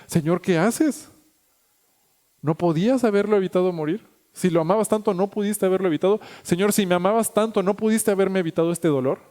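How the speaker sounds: slow, aching plea to the Lord; slow reproach. Retold or imitated. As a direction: drag out "¿qué haces?" in hurt disappointment. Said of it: "Y le reprochamos a Dios".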